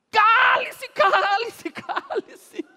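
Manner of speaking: very high, very loud jeering crowd; a crowd shouting the beggar down. Acted. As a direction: bellow them into silence. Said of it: "Muitos lhe diziam aos brados".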